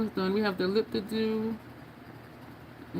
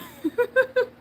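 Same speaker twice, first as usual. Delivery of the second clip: high laugh. Real, not acted. Laughing at her own advice.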